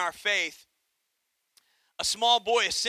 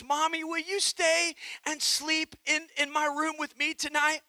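put-on a little girl's timid, softer plea, a touch shaky; trembling voice; 4 semitones higher, 4 dB quieter than usual. Daughter asking her mother to stay, quiet frightened plea. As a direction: ask mommy to stay, small and scared but understated. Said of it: "she asked with a tremor in her voice".

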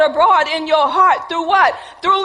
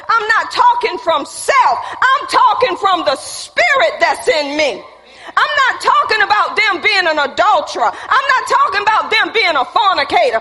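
fervent pulpit shout; full-force preaching; 4 semitones higher than usual. Acted. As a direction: preach it, building up.

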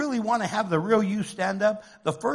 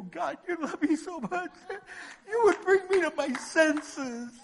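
tag; 10 semitones higher than usual. Acted. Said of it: "Instead, we go".

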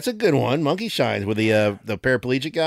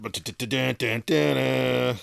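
imitated fanfare; 4 dB quieter than usual. Vocal drum roll while pulling card.

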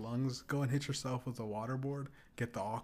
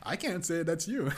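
high, loud gleeful teasing; laughing taunt; 6 semitones higher, 6 dB louder than usual. Retold or imitated. Teasing an angry gamer over a word, laughing. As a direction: replay the taunt, cracking up between phrases.

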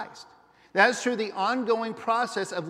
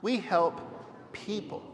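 emphasis on "We", with "people" set apart and softer; stress on WE; 5 dB quieter than usual. Shown as a demonstration. Pastor has congregation repeat it one more time, stress on "We". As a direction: lean on "We", then pause before "people". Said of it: "this time emphasize the third last word".

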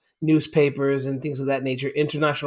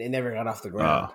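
far from the microphone; 7 semitones lower, 4 dB quieter than usual. Real, not acted. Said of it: "why do you sound so far away from the microphone".

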